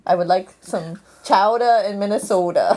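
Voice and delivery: mock Minnesota accent, round O. Wishing for chowder up north, Minnesota accent. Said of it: "probably Minnesota".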